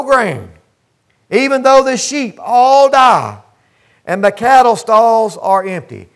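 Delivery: slow, measured reading of scripture, each even though stressed; preacher reading Habakkuk to the church, slow and solemn. Acted.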